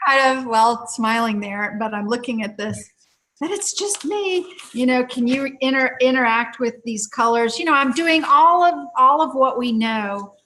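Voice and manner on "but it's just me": high-pitched mock protest; client's protest. Client to practitioner who is coaxing her, mock protest. Client insists nothing is happening.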